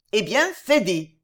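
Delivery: wild joy. Acted. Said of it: "s'écria Lapouraille avec une joie sauvage".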